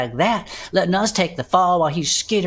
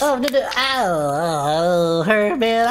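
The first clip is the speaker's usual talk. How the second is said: higher, whiny ow; mild pained yelps; 8 semitones higher, slower than usual. Acted. Bud yelping as Herb smears him, mild pained whine. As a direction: complain as the juice hurts.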